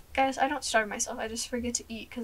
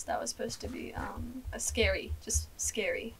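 whispering; 7 dB quieter than usual. Real, not acted. Aside after the scary line.

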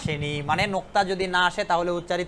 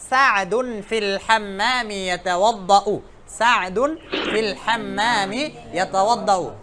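slow recitation; slower than usual. Shown as a demonstration. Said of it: "মা একজন একজন করে বলছে".

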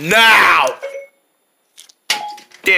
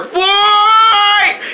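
angry shout; 11 semitones higher than usual. Acted. Scolding the boy, he shouts his name angrily.

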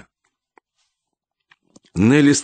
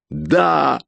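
higher, strained cry of grief; anguished, near tears; choked grief; 10 semitones higher, slower than usual. A narrator's reading. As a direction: push it out through a lump in the throat. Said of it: "Комок в горле мешал говорить".

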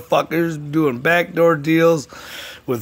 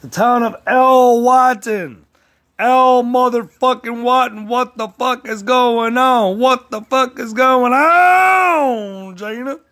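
higher, louder, slow drawn-out shout; hyped announcer shout; 9 semitones higher, 4 dB louder, slower than usual. Acted. Vlogger calling out the town, slow high announcer shout. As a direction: belt it like a wrestling intro.

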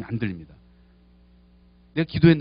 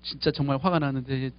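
insincere prayer; 5 semitones lower, 5 dB quieter, slower than usual. Shown as a demonstration. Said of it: "이런 ... 그거 하지 마세요".

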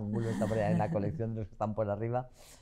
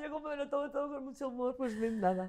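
laughing; 13 semitones higher, 5 dB quieter than usual. Real, not acted. Laughs off fans' remarks.

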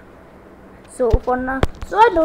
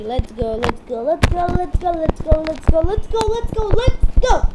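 building excitement; 3 semitones higher, 3 dB louder than usual. Real, not acted. Hyping up the start of match.

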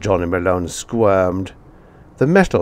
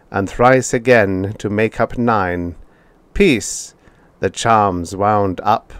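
metallic recitation. A narrator's reading. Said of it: "The robo-teacher said metallically".

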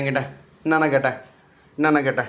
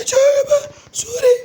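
very high, loud name calls; urgent calling; 7 dB louder, slower than usual. Real, not acted. Parent calls to the screaming child, urgent and high. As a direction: call out sharply, high and loud.

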